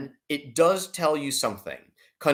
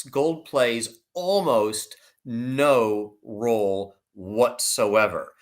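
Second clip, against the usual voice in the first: drawn out slowly, every word weighted; slow it right down to make the point land; deliberate slow dismissal; slow emphatic; 3 semitones lower, much slower than usual. Real, not acted. Emphatic dismissal of gold's role.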